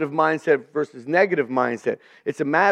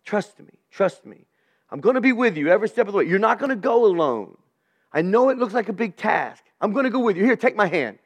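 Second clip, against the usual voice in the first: reassuring a grandson; 4 semitones higher, faster than usual. Retold or imitated. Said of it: "kinda like I would talk to one of my young grandsons".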